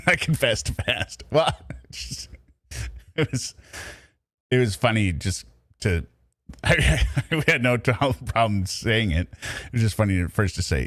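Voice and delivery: laughs breaking up the words; chuckling through the admission; laughing. Real, not acted. Streamer laughing at himself while explaining his order.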